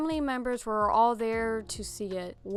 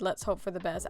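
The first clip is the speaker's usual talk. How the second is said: lower, softer flat "Let's hope for the best"; deadpan quote; 3 semitones lower, 5 dB quieter, faster than usual. Retold or imitated. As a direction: quote "Let's hope for the best" dryly under your breath. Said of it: "if any trained professional ever said".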